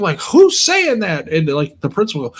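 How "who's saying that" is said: mock high puzzled voice. Bystanders asking, retold.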